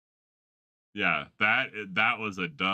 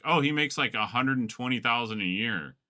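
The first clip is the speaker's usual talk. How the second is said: higher, lightly voiced proud young girl; mock valley girl; 5 semitones higher, 3 dB louder than usual. Girl boasting to the interviewer about her boyfriend, mock proud.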